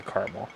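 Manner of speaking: caramel said as CAR-muhl; own pronunciation. Shown as a demonstration. Reviewer stating his habit, caramel as CAR-muhl. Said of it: "I always say caramel".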